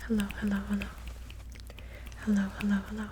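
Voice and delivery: breathy unvoiced whisper, close and intimate; whispered greeting. Shown as a demonstration. ASMR creator greeting viewers, whispering. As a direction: breathe the hellos with no voice at all. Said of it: "and whisper".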